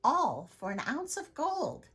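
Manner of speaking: loud, high market call; crying out. Acted. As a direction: sell it to the whole square. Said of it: "cried Helga".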